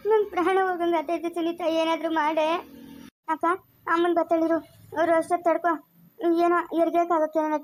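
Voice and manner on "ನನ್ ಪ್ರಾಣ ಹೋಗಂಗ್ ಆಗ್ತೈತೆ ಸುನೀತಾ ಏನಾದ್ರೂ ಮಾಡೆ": desperate sobbing plea; crying in pain. Acted. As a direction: cry out that the pain is too much. Woman in labour pain, pleading.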